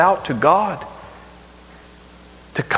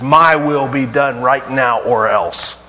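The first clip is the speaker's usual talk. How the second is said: demanding ultimatum; 3 semitones lower, slower than usual. Shown as a demonstration. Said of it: "a faith that looks to Jesus and says".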